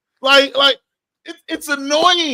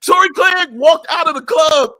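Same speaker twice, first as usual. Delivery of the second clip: heated rant; 3 semitones higher, 3 dB louder than usual. Real, not acted. Ranting, louder.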